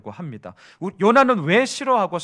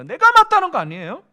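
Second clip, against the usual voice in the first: indignant; 10 semitones higher, 8 dB louder than usual. Acted. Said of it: "결국은 내가 맞은 거 아니냐라는 거죠".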